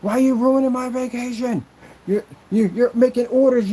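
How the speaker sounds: hammed-up shout of a jerk on vacation; retold screaming. Mimicking the customer yelling about vacation orders, mock yell. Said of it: "started screaming at me".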